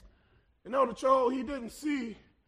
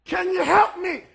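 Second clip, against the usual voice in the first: mild call for help; 5 semitones higher, 6 dB louder than usual. Retold or imitated. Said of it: "the man cries out".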